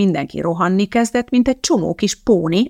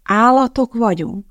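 slow, higher astonished question; wide-eyed wonder; 4 semitones higher, 3 dB louder than usual. A narrator's reading. Tommy asks Madeline, in wide-eyed wonder. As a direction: ask it in childlike amazement. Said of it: "kérdezte tágra nyílt szemmel Tommy".

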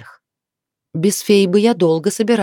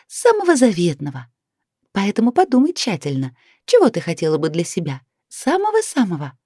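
high, stern fairy leader voice; stern fairy elder; 7 semitones higher than usual. A narrator's reading. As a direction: lay it out sternly like a fairy chief. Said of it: "строго заявила".

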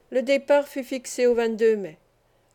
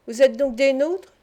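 lively; 2 semitones higher, 5 dB louder than usual. Acted. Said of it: "demanda vivement Penelon".

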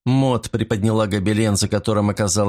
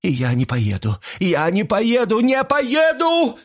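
rising hysterical refusal; 14 semitones higher than usual. A narrator's reading. Mrs Creel refusing arrest, building from protest to shriek.

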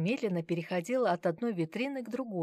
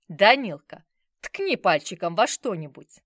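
coaxing grandfather; 10 dB louder than usual. Acted.

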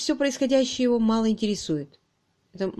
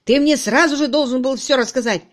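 loud, raised-pitch scolding; heated yelling; 5 semitones higher, 8 dB louder than usual. A narrator's reading. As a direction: lay into him angrily. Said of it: "закричал, распаляясь Кирк".

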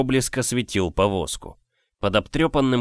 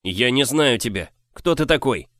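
higher, all in one breath; blurted in one breath; 4 semitones higher than usual. Acted. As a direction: blurt it out at once. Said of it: "выпалил на одном дыхании".

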